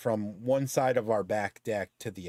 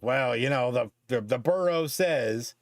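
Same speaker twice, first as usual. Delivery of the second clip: mock officious bureaucrat. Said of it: "one of those douchebags who's like".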